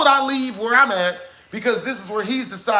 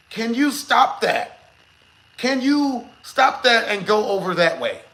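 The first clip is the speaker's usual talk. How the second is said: slow firm request; slower than usual. Retold or imitated. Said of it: "That's exactly what I said to him".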